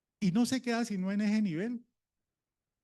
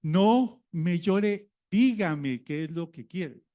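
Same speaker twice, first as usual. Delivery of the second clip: put-on slow, firm parent telling a child to stop crying; patient parent; 4 dB louder, slower than usual. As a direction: slowly lay it out for the child, firm but calm. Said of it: "uno lo primero que le dice es". (padre que habla despacio y con firmeza)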